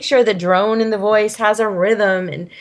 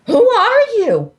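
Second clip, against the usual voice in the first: excited question; 12 semitones higher, 4 dB louder than usual. Retold or imitated. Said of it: "I said".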